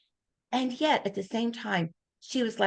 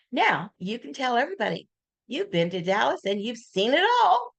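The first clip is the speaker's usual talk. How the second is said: playful quip; 4 semitones higher than usual. Retold or imitated. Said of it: "Isn't that brilliant?".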